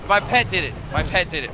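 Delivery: loud, hammed-up accusation; mock blaming. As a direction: insist it loudly, half-joking. Repeats the blame, fading.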